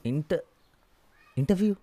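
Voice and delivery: sharp high rising question; surprised. Acted. Son startled that his father has an interview on a Sunday, rising in surprise. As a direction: jump up in disbelief on the word.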